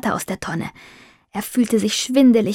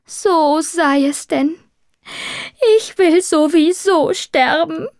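pompous; 8 semitones higher than usual. A narrator's reading. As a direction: declaim it with lofty self-pity. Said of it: "fügte er etwas hochtrabend hinzu".

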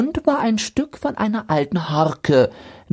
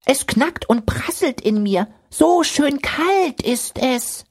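snowman; 7 semitones higher than usual. A narrator's reading. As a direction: savour the cold like a proud snowman. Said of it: "sagte der Schneemann".

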